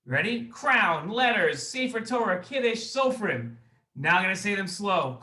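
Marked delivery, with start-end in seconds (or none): 0.5-3.6 rattled off quickly in one breath, no pauses; said fast. Shown as a demonstration. Host quizzing kids on the memory words, fast. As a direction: race through the list at speed. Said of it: "then fast".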